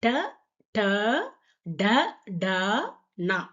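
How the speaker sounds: ட ட ட ட then நா as the three-loop retroflex ண; Hindi ṭa-row recited. Shown as a demonstration. Teacher to students, reciting the retroflex row clearly. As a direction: space out ட ட ட ட நா, each one distinct. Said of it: "இதையும் பார்த்துக்க மறுபடியும்".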